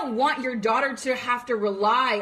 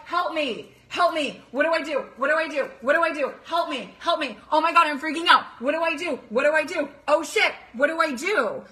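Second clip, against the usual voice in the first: higher, frantic pleading with a cry on the third ask; mock panicked girl; 4 semitones higher than usual. Imitating a girl who can't cope, panicked and pleading. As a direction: act out a girl freaking out, begging for help. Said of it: "So they're like".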